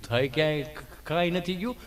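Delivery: low, sheepish mumble; Gabho's voice. Retold or imitated. Gabho mumbles back to the doting nurse, low and sheepish. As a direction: answer low like a shy villager.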